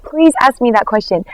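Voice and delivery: mild retold plea; begging. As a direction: plead gently, without pushing. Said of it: "begging me".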